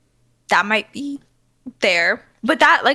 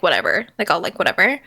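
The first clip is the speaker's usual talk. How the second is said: dismissive whatever; 5 semitones lower, faster than usual. Acted. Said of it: "She's very much just like".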